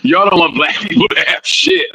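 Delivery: a hammed-up hint of an irate rapper; imitating a yelling rapper. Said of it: "He started yelling at the assistants".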